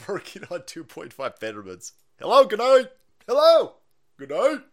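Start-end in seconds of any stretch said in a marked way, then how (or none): 2.2-2.9 shouted greeting. Real, not acted. Loud greeting to viewers. 3.3-4.6 higher, louder hello and good night; shouted greeting. Real, not acted. Streamer greeting chat, loud.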